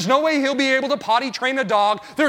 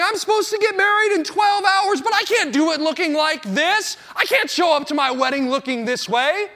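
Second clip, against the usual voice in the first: mirror panic; 4 semitones higher than usual. Retold or imitated. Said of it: "staring at myself in the mirror going".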